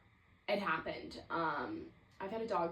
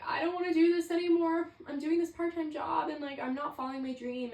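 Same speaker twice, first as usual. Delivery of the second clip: retold crying rant; 8 semitones higher, 6 dB louder than usual. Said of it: "like, crying, and I was like".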